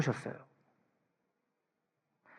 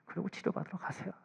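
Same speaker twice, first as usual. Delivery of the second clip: a softer, breathed final nudge; soft whisper; 3 semitones higher, 12 dB quieter than usual. Real, not acted. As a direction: urge it quietly. Soft closing urging.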